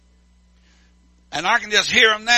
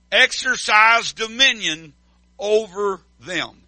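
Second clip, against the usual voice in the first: slow, weighty recitation; scripture reading; slower than usual. Acted. Preacher reading Jesus's words to his church, slowly. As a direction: intone each phrase deliberately.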